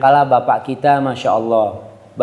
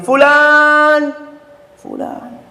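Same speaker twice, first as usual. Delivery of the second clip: mother calling; 12 semitones higher, much slower than usual. Acted. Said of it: "dipanggil sama ibumu".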